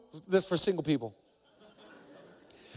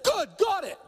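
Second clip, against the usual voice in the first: intense bark; 12 semitones higher than usual. Retold or imitated. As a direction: fire the questions like a linebacker ready to go. Heath snapping acknowledgement.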